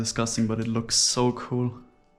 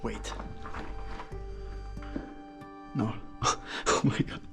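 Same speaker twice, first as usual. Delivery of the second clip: startled; 6 dB quieter than usual. Real, not acted. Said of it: "That just freaked me out".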